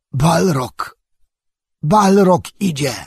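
high, loud cry of alarm; Legolas's anguished wail. A narrator's reading. Elf warns companions the Balrog comes, high horrified cry. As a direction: wail the warning in horror. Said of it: "jęknął Legolas".

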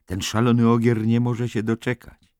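wyższy, podekscytowany głos kpiarza; żartobliwe ponaglanie. Acted. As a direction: ponaglaj z kpiną, wysoko. McMurphy teases eager Billy. (rozochocony kpiarz, wyższym głosem)

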